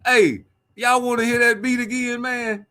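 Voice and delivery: laughing. Real, not acted. Laughing, asks replay.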